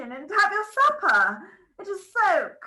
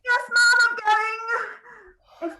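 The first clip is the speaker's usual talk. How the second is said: louder, higher flustered reply; 6 semitones higher, 3 dB louder, much slower than usual. Acted. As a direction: answer fast and flustered. Maid answering loudly.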